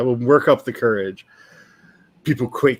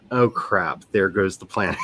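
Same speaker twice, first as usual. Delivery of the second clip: laughing mock dismay; 4 semitones lower, 4 dB quieter than usual. Dismay at character appearing.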